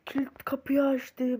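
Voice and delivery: startled gasp into a hushed whisper; sneaking whisper with a sharp gasp; tense whisper. Real, not acted. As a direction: whisper it like the door just scared you.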